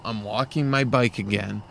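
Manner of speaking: understated acted resignation; mock dejection. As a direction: grumble it lightly to yourself. Voicing weary thoughts at another climb.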